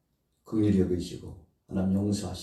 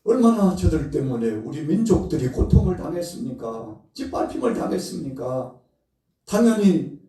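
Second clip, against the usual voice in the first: high, loud, outraged cry to God; indignant protest; 10 semitones higher, 6 dB louder than usual. Acted. Preacher voicing Jonah's outrage at God, high and loud.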